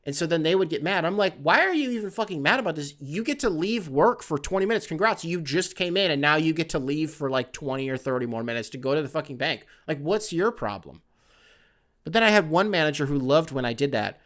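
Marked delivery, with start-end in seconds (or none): 1.4-11.0 exasperated rant. Retold or imitated. Retold rant at other managers.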